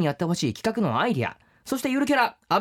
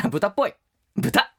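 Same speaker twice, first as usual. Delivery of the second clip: mocking insult; 3 semitones lower than usual. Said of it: "安倍長ネーム ... いただきました".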